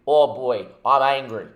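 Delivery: loud, real anger boiling over; angry. Real, not acted. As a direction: let the frustration burst out. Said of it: "you haven't picked up that I'm fucking angry".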